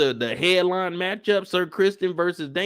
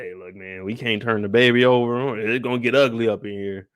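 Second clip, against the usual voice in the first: grave doctor; 6 semitones lower than usual. Retold or imitated. Doctor breaking grim news.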